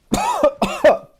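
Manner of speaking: sudden dry coughing fit; coughing on dust. Real, not acted. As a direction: cough hard, throat caught on dust. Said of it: "Oh, excuse me".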